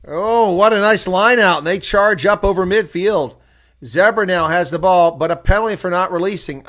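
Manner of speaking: loud, high burst of play-by-play; excited commentary. Real, not acted. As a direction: call the charge up the field with rising excitement. Exciting lineout and charge, play-by-play.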